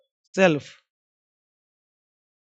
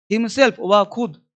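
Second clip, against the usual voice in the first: slow dictation; much slower than usual. Shown as a demonstration. Teacher dictating to students, slow and deliberate. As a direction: say "Himself, वह खुद" very slowly, word by word. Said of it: "dictating slowly to class".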